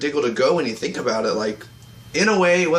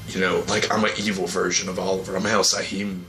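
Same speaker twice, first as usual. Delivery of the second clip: Oliver; 7 semitones lower than usual. Retold or imitated. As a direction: drop deep, imitating an evil version of the hero. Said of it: "he's trying to do, like, a deeper voice".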